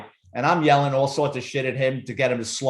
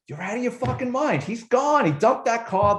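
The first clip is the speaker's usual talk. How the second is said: pitched up high, mocking the partner's scorn; scoffing partner; 9 semitones higher than usual. Cop imitating his partner calling him crazy, pitched high. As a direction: brush the idea off as crazy.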